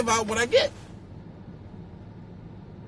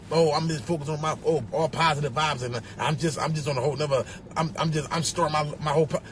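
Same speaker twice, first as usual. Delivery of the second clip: lower, softer mock dreamy voice; mocking spiritual talk; 6 semitones lower, 5 dB quieter than usual. Mocking people posting positive vibes, soft low mock voice. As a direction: mimic a smug zen poster, softly. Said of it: "they just".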